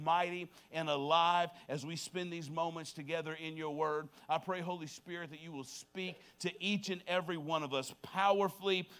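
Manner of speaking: prayer. Real, not acted. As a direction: lead the room in a hushed, heartfelt prayer.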